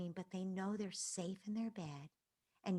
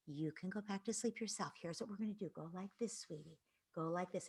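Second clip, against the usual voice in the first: gentle coaching; 6 dB quieter than usual. Retold or imitated. Scene: parent teaching a child to self-soothe, soft and tender. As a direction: show a child how to settle. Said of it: "So it's like".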